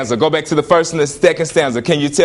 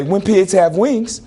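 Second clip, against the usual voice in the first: drawn-out, higher mock refusal; slow teasing brush-off; dismissive comeback; 4 semitones higher, slower than usual. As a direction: answer an absurd request, amused and slow. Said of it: "And I say".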